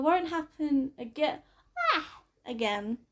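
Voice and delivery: word broken by a yawn. Acted. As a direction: yawn in the middle of it. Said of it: "I yawned quietly".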